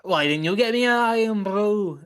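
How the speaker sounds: imitating brother. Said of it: "I thought he was gonna be like".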